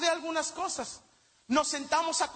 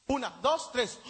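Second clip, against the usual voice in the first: cuenta "Una, dos, tres" despacio, con pausas largas entre los números; conteo lento; 3 semitones lower than usual. Shown as a demonstration. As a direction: cuenta "Una, dos, tres" arrastrado, esperando la reacción del público. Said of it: "No le salió". ("Una, dos, tres" contado lento y con silencios)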